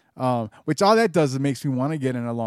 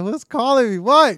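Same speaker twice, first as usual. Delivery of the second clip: retold calling out; 11 semitones higher, 9 dB louder than usual. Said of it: "he kept like".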